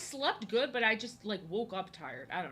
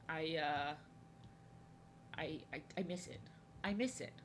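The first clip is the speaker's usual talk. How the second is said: soft whisper, barely voiced; whispered admission; 3 semitones lower, 6 dB quieter than usual. Real, not acted. Streamer confessing to chat, whispered. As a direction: breathe it out wistfully. Admitting missing family birthdays.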